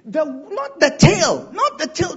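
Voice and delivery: firm correcting stress on "not". Shown as a demonstration. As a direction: punch "not the tail". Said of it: "The emphasis here says".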